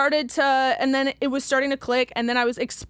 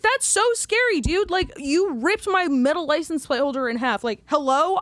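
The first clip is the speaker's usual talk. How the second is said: sarcastic mock fear; 4 semitones higher than usual.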